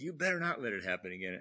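retold stern warning. Officer warning the chief after the mistake, retold stern warning. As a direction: warn him like an angry superior. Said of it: "getting yelled at by the E".

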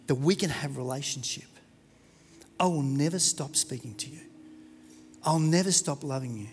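low, soft and tender, very hushed; gentle whisper. Acted. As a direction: speak it close like a loving father. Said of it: "God stands and he whispers".

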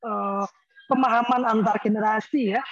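ordinary talk

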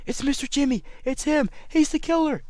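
triumphant shout naming the killer; excited accusation. Acted. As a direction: point and cry out the culprit. Sparky names the killer.

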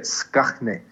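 Skachne said SKAKH-nee, softly; throaty kh in Skachne, then a short nee; demonstrated pronunciation. Shown as a demonstration. Teaching a colleague how to say it, Afrikaans Skachne. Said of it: "That's how you say it".

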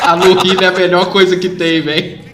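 laughing while talking; words through leftover laughter; after laughing hard. Real, not acted. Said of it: "Ai, chorei".

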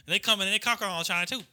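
high, indignant Southern redneck rant; Southern accent. Acted. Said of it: "remember my fucking Southern accent".

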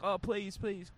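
high, light imitated plea; friendly pleading. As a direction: coax the host sweetly, acting it out. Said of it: "being all friendly".

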